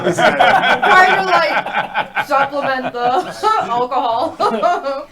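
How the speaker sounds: laughing as she talks. Real, not acted. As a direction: giggle through it. Laughing at joke.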